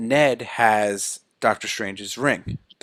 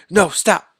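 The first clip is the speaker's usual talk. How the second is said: raised-pitch order to halt; imitated scolding; 5 semitones higher, 4 dB louder than usual. Grandma stops the Spider-Men shooting webs, in a mock scolding voice. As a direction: cut in like someone breaking up a fight. Grandma halts the web fight.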